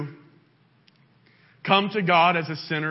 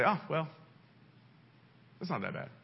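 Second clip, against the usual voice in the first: mock dismissiveness; 7 dB quieter, faster than usual. Acts king dismissing his sin.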